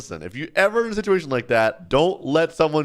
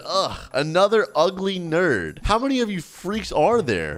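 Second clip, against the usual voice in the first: higher, mock-disgusted bully taunt; sneering bully; 5 semitones higher than usual. Ken picking on the nerd in Starbucks, sneering. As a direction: taunt them like a game bully.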